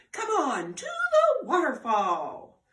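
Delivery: loud, slow rallying call. Acted. Elmer calling the animals to the waterfall, loud call. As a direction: call everyone to follow.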